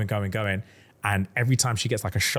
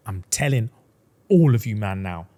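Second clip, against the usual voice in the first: slow, louder, menacing order; threatening demand; 4 dB louder than usual. Retold or imitated. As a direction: lay down the threat word by word. Heroine threatens the High Lords.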